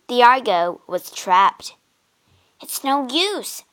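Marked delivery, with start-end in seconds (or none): 2.6-3.6 despairing. Acted. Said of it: "cried Jason".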